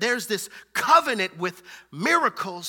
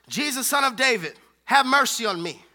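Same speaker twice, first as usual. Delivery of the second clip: moderately raised calling out; hollered plea; 3 dB louder than usual. Acted. Preacher retells the blind man calling Jesus, mild holler. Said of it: "He hollers".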